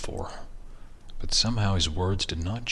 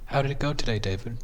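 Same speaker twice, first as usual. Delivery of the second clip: wife voice; 5 semitones higher, faster than usual. Acted.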